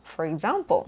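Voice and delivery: EXAMPLE with a British ah, ex-AHM-ple; long ah vowel. Shown as a demonstration. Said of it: "ใช้เสียงสระอาเข้าไปอย่างเงี้ย". (example ใช้เสียงสระอาแบบอังกฤษ)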